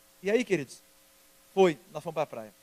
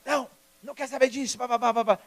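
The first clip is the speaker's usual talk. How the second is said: louder, higher mock outburst; hammed-up scolding that runs into babble; mock parental refusal; 6 semitones higher, 7 dB louder than usual. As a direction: cut her off with a raised, blustering voice. Retold urge to refuse the daughter.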